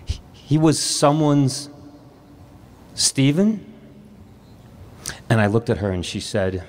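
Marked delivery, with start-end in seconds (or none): 0.0-3.6 stunned inner thought. Retold or imitated. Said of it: "I thought to myself".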